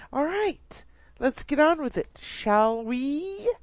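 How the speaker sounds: normal talking voice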